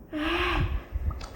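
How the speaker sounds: heavy acted sigh; exasperated sigh. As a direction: let out a big huff of dismay. Acted sigh after the outcry.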